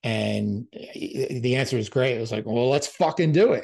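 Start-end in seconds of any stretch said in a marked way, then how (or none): 2.4-3.6 badly faked Scottish accent, pitched up; hammed-up, amateur Scottish impression; horrible Scottish accent. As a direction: have a clumsy go at a Scottish accent. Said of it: "that's a horrible Scottish accent".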